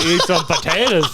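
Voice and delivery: laughing mock Irish; playful leprechaun Irish accent; Irish-sounding accent. Shown as a demonstration. Playing along after being called Irish, laughing Irish accent. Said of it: "That's Irish".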